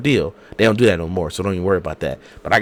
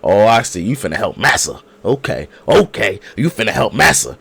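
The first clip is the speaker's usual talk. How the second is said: sarcastic realization; 4 dB louder than usual. Retold or imitated. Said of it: "I'm like".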